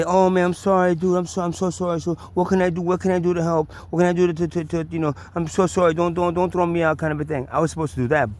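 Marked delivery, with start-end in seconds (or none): 0.0-7.0 groveling apology. Pretend. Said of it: "I was supposed to, like, be".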